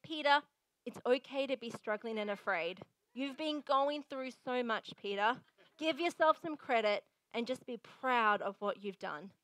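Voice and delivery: mild, measured comforting tone; gentle reassurance. Pretend. Imagined modern Jesus comforting Peter, gentle reassurance. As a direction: soothe with a touch of counsellor's patience. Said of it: "Maybe Jesus would have said".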